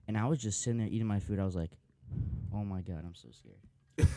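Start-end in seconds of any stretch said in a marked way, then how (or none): 2.5-4.1 retold fear. Retells his own scared reaction.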